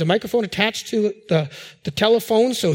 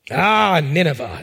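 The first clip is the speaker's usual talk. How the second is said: low, disgusted groan at the name; mock disdain; 4 semitones lower than usual. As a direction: play a grudging prophet loathing his mission. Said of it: "wrong attitude".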